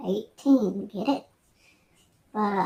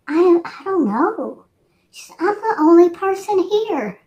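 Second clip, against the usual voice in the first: put-on scared young voice; 8 semitones higher, 5 dB louder than usual. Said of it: "she sounded terrified".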